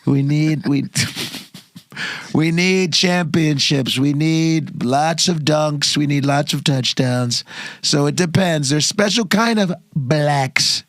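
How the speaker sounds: Trump impression. Answering as Trump.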